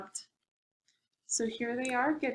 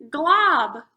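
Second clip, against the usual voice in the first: loud, dramatic monster reveal; monster name boomed; 5 semitones higher, 9 dB louder than usual. A narrator's reading. Reading to kids, booming the swamp monster's name. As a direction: boom out the name like a spooky surprise.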